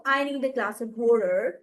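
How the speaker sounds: water said American style as wader; American accent. Shown as a demonstration. Teacher demonstrating to students in an American accent. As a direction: demo of the American way of saying water. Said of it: "American लहजा है".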